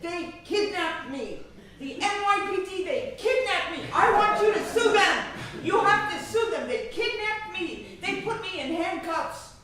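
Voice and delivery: loud, high, indignant outburst; upset shout. Retold or imitated. Father telling his daughter the police kidnapped him, shouting. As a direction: cry out like a wronged old man. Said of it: "He was so upset".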